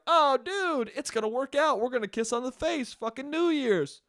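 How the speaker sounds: lightly voiced daydreaming romantic; giddy inner romantic. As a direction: gush like a lovestruck fool. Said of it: "the romantic psychotic in me is like".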